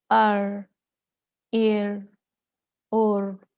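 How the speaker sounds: loud अर, एर, उर, forced; wrong trill. Shown as a demonstration. Teacher marking this r as wrong. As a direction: overdo the rolled r. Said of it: "ये गलत है".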